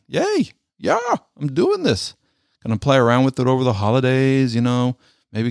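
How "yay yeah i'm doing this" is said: much higher, gleeful mock cheer; excited. About to trim his beard, cheering himself on excitedly. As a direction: squeal it like a kid with a new toy. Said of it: "This is kind of exciting".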